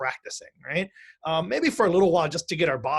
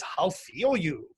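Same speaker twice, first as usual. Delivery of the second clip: failed Yoda voice; much slower than usual. Retold or imitated. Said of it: "I can't do my Yoda voice this morning".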